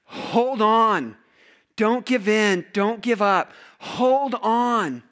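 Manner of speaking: preacher's rallying call; urgent exhortation. Retold or imitated. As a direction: urge them not to let go. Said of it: "the writer of Hebrews is saying to you".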